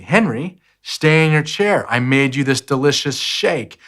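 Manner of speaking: patient coaxing that turns firmer; nicely, growing impatient. Retold or imitated. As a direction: coax the kid back to his chair, patience wearing thin. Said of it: "I was telling him nicely".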